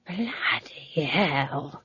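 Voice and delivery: slow breathless whisper of shock. A narrator's reading. Old witch stunned by Granny's plan, whispering. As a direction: breathe it out in disbelief. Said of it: "she whispered".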